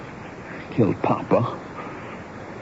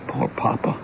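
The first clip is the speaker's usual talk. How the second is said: whispered grief; 6 dB quieter than usual. Acted. Grieving over murdered father.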